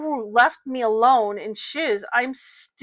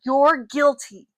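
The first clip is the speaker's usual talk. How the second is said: slow, higher, louder accusation; yelling; 4 semitones higher, 5 dB louder, slower than usual. Acted. Father stands over his daughter, yelling an accusation at her. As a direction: spit out the verdict, slow and raised. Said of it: "Pops was yelling".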